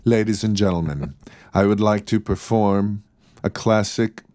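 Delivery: lightly formal announcer with measured pauses; a touch of concert-hall formality; mock stage introduction. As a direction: introduce a solemn recital, tongue in cheek. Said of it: "let me just say the following anyway".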